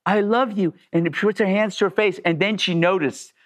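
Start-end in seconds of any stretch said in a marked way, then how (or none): 0.0-0.7 higher-pitched gushing imitation; mock adoring fan; sudden adoration. Woman who screamed now adores the driver, gushing.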